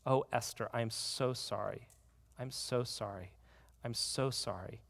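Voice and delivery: hushed, softly broken repeated apology; a mother whispering sorry through tears; tearful apology. Acted. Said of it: "with tears streaming down her face".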